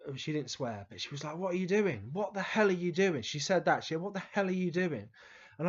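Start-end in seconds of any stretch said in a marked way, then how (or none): 1.4-3.2 higher-pitched mock telling-off; retold scolding. Teacher rushing over to a pupil leaking gas, mock scolding. 4.0-5.1 higher, mildly exasperated teacher's outburst; retold scolding. Teacher to the pupil who turned on the gas, retold scolding.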